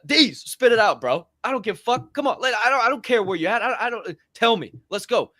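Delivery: high, pushy coaxing; urging producer. Retold or imitated. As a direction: egg the shy producer on to speak up. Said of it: "every single time".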